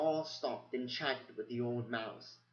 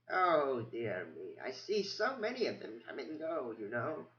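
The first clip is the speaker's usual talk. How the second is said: put-on squeaky old mouse; 4 semitones higher than usual. Old archivist mouse greeting the abbot, high and squeaky. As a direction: mumble it like an absent-minded ancient mouse. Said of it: "in a squeak barely above a whisper".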